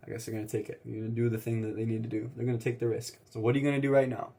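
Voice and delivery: ordinary talk, nothing marked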